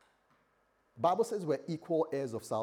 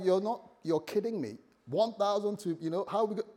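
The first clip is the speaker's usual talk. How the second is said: high-pitched, incredulous protest; mock outrage, pitched well up; hot-blooded wife; 7 semitones higher than usual. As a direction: act a fiery wife who can't believe him. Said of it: "hot blood, she'd be like".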